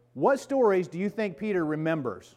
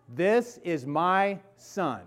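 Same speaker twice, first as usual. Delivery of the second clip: voice from heaven; 3 semitones higher, much slower than usual. Pretend. Voice from heaven, slowed.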